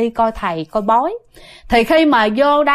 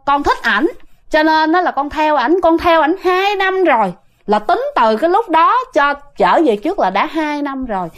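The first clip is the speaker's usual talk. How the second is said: put-on spirit's girlish voice; 4 semitones higher than usual. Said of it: "nói chuyển qua giọng nữ".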